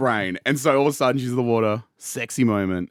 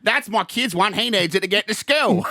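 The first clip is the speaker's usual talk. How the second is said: mock Dundee reply; 9 semitones higher than usual. Dundee answers the bartender.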